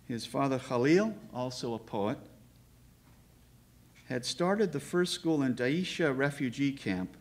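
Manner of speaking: deliberate prepared reading in measured phrases; formal biographical introduction. Real, not acted. Host giving the poet's biography to the audience, formal and measured. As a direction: read out the poet's life with ceremony.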